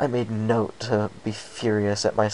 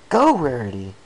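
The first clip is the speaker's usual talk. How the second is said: urgent call; 3 semitones higher, 7 dB louder than usual. A narrator's reading. Urging friend to run.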